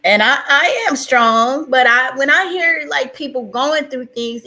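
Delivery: high, loud, tearful insistence; sad. Real, not acted. Streamer saying people's troubles bother her, tearful. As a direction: insist on strength while upset. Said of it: "it's just making me sad".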